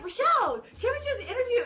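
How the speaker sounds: lightly voiced mellow friend, high and laughing; mock her calm plea to get on with it; a hint of an unflappable friend. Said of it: "But she's like".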